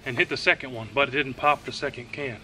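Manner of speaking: panting between words after running; out of breath. Real, not acted. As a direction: talk while still catching your breath. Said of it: "Oh man, I'm out of breath from".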